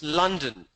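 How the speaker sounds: London with a crisp L, falling; London with a reduced second vowel. Shown as a demonstration. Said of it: "It's a very crisp sound".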